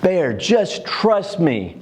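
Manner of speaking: put-on high, slow, earnest little boy; a four-year-old patiently convincing grandpa; lightly voiced earnest child; insistent child. Grandson insisting in retold story.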